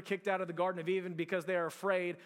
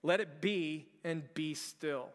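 slow quoted calm; 3 semitones lower, slower than usual. Shown as a demonstration. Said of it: "He says".

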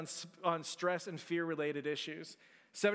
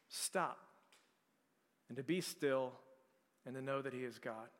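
quiet it right down, almost still; hushed and slowing; 5 semitones lower, 7 dB quieter than usual. Real, not acted. Preacher to church, hushed and gentle. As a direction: let it drop soft and low.

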